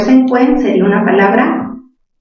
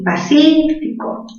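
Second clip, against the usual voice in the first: "pacífico" slow and higher, leaning on cí; slow stressed word; 6 semitones higher, slower than usual. Shown as a demonstration. Teacher shows students stress in "pacífico". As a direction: draw out "pacífico" with weight on cí. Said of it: "La tilde iría en, en sí".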